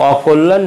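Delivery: অকল্যাণ said the mistaken way; অকল্যাণ as learners often mispronounce it; wrong pronunciation. Shown as a demonstration. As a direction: read অকল্যাণ the naive way. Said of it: "নয়".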